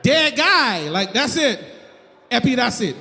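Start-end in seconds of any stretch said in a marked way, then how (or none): 0.0-0.9 mock Haitian accent, firm. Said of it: "I can do the accent". 2.3-3.0 imitated Haitian accent, curt dismissal. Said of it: "That's what he said".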